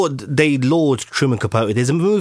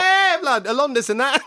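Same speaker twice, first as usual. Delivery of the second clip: high squealing laughter; cracking up. Real, not acted. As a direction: laugh while trying to talk. Cracking up at joke.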